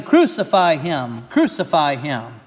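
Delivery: loud, slow, dropping chant; shouting. Acted. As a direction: hurl the demand at the governor. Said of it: "began shouting".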